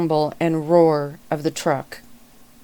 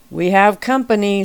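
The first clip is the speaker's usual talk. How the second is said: a louder, higher warning call; a raised shout of warning; 4 semitones higher, 5 dB louder than usual. Acted. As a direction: call out the alert to the pack. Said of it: "somebody else shouted".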